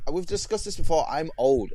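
high protest. Real, not acted.

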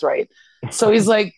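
ordinary delivery

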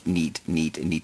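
fading echo. Acted. Echo on "neat.

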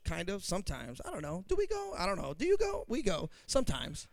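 mock evasive churchgoer. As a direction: play a nervous half-believer dodging. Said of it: "guilt takes over and says".

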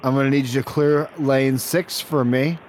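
"clear lane six" spaced out deliberately; measured, insistent restating. Acted. Repeats demand after a "What?.

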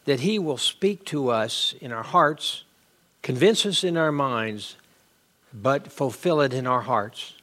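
low-pitched spoken prayer. Real, not acted. Preacher asking God to speak to our hearts, prayerful. Closes a prayer before the lesson.

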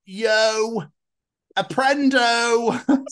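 high, very slow mock Spanish; imitating Keris. Imitating a friend proudly trying Spanish. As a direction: ham up a friend's halting Spanish. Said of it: "She's just like".

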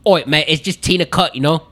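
Brummy leaning South African; Brummy accent. Acted. Guest trying a Birmingham local, Brummy accent. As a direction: put on a loose Brummy accent. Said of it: "almost South African".

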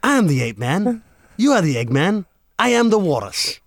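lightly voiced gardener reciting song lyrics; Peter Cundall. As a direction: lyrics in a mild impression, line by line. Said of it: "Give us a bit more. I'm the Walrus".

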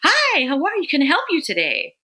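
loud, high, bubbly volunteer rushing in; loud perky greeting. Retold or imitated. Volunteer rushing up to a feeding mother, loud and perky. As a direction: burst in loud and chirpy. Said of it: "like, really loudly".

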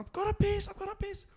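whiny desperate plea. Retold or imitated. Friend's desperate plea voiced.

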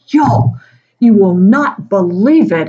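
mock alarmed announcement; excited colleague. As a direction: burst in with big news. Colleague bursting in with news.

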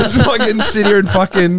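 joking exit, laughing as you talk; laughing self-mockery. Real, not acted. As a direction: grumble jokingly through laughter. Jokingly told to leave the conversation.

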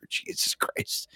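breathy whisper, slowed; slow stunned whisper; whispered disbelief. Real, not acted. Disbelief after dad story.

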